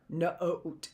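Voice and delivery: "Note" broken into nuh, oh, t; unblended "Note", gaps between sounds; sounding out letters. Shown as a demonstration. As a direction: sound out "Note" in separate pieces. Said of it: "That's sounding out each letter".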